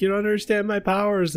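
high, eerie put-on voice; creepy voice. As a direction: mimic the creepy ghost voice. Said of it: "the voice was yours saying".

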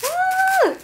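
very high "woo" of delight; thrilled high woo; delighted whoop. Real, not acted. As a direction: squeal a high, drawn-out whoop. Delight at the next blade.

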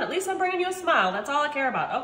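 breathless after ranting; talking short of breath. Real, not acted. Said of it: "I'm out of breath".

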